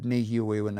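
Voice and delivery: Nehio, long form, with the short word's stress; learners' misplaced stress. Retold or imitated. Teacher gives example of Nehio with misplaced stress. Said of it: "if you get the stress in the wrong place".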